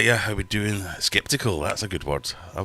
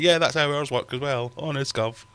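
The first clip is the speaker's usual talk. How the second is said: higher, eager mock sales pitch; mocking the copycat brands, pitched up; mock salesman; 9 semitones higher, 4 dB louder than usual. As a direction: parrot the bandwagon brands brightly. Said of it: "and were like".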